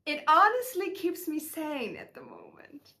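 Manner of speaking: breathy emotional whisper. Real, not acted. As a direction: whisper it through the tears.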